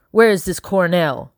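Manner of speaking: demanding. Acted. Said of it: "Mister Robert demanded".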